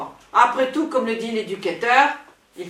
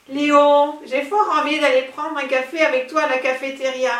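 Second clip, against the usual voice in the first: breathy vintage purr; 4 semitones higher than usual. Acted. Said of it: "Non, ça ne va pas".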